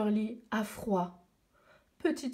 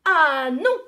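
a hint of a young girl saying no; light girl voice protesting; girl refusing; 4 semitones higher, 9 dB louder than usual. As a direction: refuse firmly, a little louder. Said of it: "répond petite sœur Lee".

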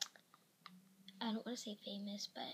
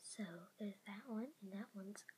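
whispering. Real, not acted. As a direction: whisper so the parents stay asleep. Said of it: "the reason I'm whispering, 'cause my parents are sleeping".

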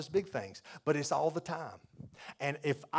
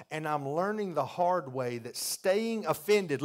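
building preach; 3 semitones higher, 5 dB louder, slower than usual. Real, not acted.

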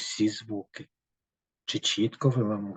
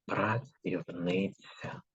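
slow, softer repeat for writing; slow dictation; 6 dB quieter, slower than usual. Shown as a demonstration. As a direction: repeat slowly so everyone can write. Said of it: "І записуємо слова". (повільний тихий повтор диктанту)

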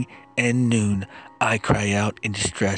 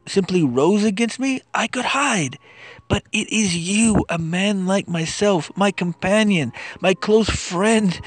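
impassioned plea; 5 semitones higher than usual. Acted. Anguished lament in psalm reading.

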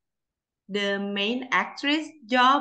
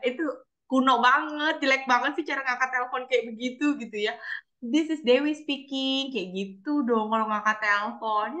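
mildly exasperated boss, higher voice; light mock telling-off, raised pitch; retold boss's scolding; 4 semitones higher than usual. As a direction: imitate a boss correcting an employee, pitched up. Boss scolding her phone greeting, retold.

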